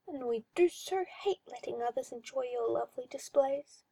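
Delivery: a hint of a creepy, cooing master; mildly sinister coaxing; lightly voiced oily magister. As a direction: purr it like a condescending owner. Magister continues.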